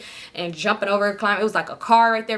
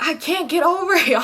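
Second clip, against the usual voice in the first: high, put-on helpless whine; mock helpless cry at the gate; whiny drunk plea; 7 semitones higher than usual. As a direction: play the stuck drunk girl.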